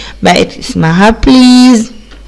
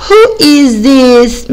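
very slow, word by word; slow model reading; 3 semitones higher, much slower than usual. Shown as a demonstration. Teacher slowly modelling the question for pupils. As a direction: spell it out slowly for the kids. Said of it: "يبقى".

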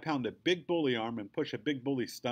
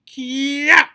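very high, full-force martial arts yell; explosive taekwondo kick shout; spirit scream; 19 dB louder than usual. A narrator's reading. Girl front-kicking a soccer ball, screaming her spirit scream. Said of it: "I scream my spirit scream".

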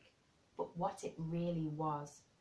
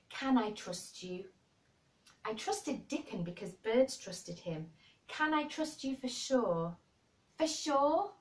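imploring; 5 semitones higher than usual. Acted. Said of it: "she implored".

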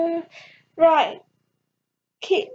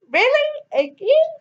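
much higher disbelieving Lestrade; exasperated; 10 semitones higher, 3 dB louder than usual. Acted. Lestrade hearing Sherlock collapsed again, higher exasperated voice. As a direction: roll your eyes at this.

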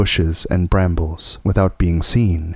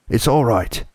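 higher, eager all clear; excited reassurance; 4 semitones higher than usual. A narrator's reading. Beaver calling the family out of the cave, eager and lighter. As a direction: reassure them it's safe. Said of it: "he was shouting".

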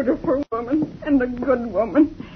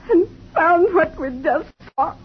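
crying; 5 semitones higher than usual. Acted. Recounting finding dead friend.

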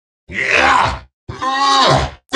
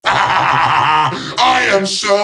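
laughing villain; 3 semitones higher, much slower than usual. Acted. Villain laughs at own power.

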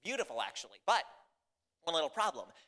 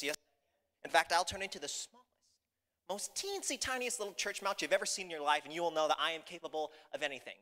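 boastful ogre; 2 semitones higher than usual. Acted. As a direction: show off grandly to a doubter.

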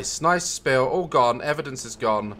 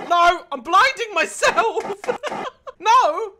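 laughing; 9 semitones higher than usual. Real, not acted. Laughing at blinding phone.

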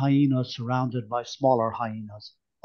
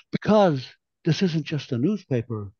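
solemn. Acted. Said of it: "Sval said solemnly".

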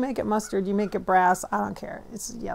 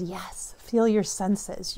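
slow calm guide; much slower than usual. Retold or imitated. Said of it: "he says".

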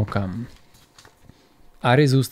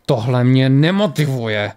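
slow, restrained fury; a touch of held-back anger, slowly; full of rage; slower than usual. Acted. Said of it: "řekl plný vzteku".

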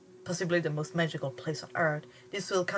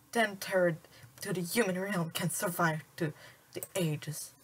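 whisper. Acted. Sprite drops to whisper.

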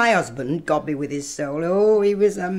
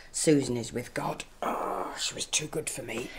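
much softer, whispered grief; a whispered aside about her dead daughter; grieving whisper; 7 semitones lower, 11 dB quieter than usual. Acted. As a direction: breathe it out, mourning her lost child. Nurse mourning her dead daughter.

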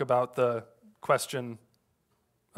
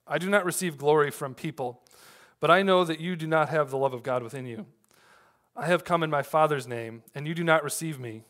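scripture reading; 2 semitones higher than usual. Acted. Reads John five aloud.

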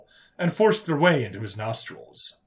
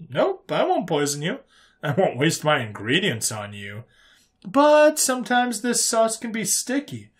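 lightly voiced human, high at start and exit; slyly threatening human; 3 semitones higher than usual. Human warning prisoner the sauce gets everywhere, sly. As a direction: veil the threat in friendliness.

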